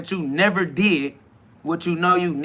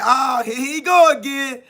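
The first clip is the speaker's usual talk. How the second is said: higher, nagging hater voice; sneering mock critic, pitched up; 6 semitones higher than usual. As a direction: whine it like a heckler in the comments. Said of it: "They like".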